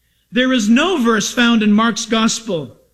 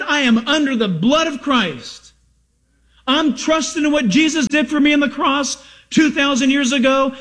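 higher, impassioned sermon delivery; fervent preaching; 3 semitones higher than usual. Real, not acted. Preacher testifying to the congregation about trusting the cross, fervent preaching. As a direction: preach it with conviction, pitch lifted.

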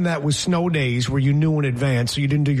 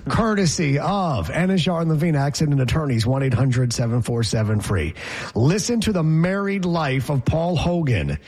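a lightly hammed-up newscast with sponsor plug; mock news read; 3 semitones higher than usual. Reading Paul Hogan's marriages to co-host as breaking news. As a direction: read it like a radio bulletin.

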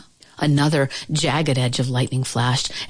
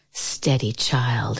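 put-on soft, gentle coo to a scared child; 5 semitones lower, 4 dB quieter, slower than usual. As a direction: soothe her quietly. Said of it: "she cooed".

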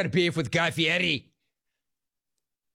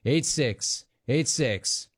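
slow, measured phone number read; radio announcer read; slower than usual. Acted. Radio host slowly reading the call-in number to listeners.

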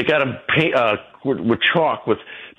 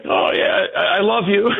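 mock-sweet, pitched up with a laugh; sarcastic reply; 9 semitones higher than usual. Speaker retells taunting protester, sarcastic and laughing. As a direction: taunt her with fake affection. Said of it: "I'm like".

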